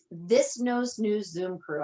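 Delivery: slow, carefully spaced words; said slowly. Shown as a demonstration. Host naming her group for the audience, said slowly. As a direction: spell the name out slowly so it lands. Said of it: "I have to say that slowly sometimes".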